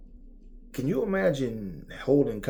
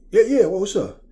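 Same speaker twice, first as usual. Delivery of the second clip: loud, much higher hype-bro voice; hyped reply; 7 semitones higher, 10 dB louder than usual. Retold or imitated. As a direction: blast it like a pumped-up homie. Imitating the hyped-up talker.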